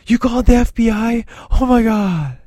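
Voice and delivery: he hears the mom called the FBI and panics, high freak-out voice. Retold or imitated. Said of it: "just like he does in".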